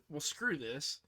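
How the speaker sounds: fed-up defiance. Retold or imitated. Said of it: "so I said".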